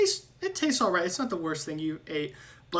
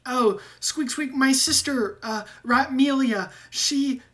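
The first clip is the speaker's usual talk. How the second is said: high, louder squeaky rat fretting over his sister; worried squeaky rat; 9 semitones higher, 7 dB louder than usual. Acted. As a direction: squeak out the worry, much higher. GM voicing Ratrick.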